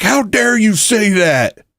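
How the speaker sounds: high, slow mock outrage; high-pitched offended parody; mocking offended people. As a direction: clutch the pearls in a squeaky voice. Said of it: "People were like".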